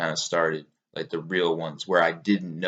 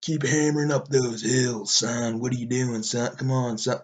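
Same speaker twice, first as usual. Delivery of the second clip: lightly voiced goading coach, a bit higher; Cameron Haynes; 3 semitones higher than usual. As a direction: urge him uphill in a mild imitation. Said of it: "I kept thinking he was telling me".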